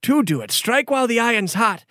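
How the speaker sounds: high, courtly gift speech; formal noble lord. Acted. Noble gives the hero a ring, courtly. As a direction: bestow the ring with ceremony.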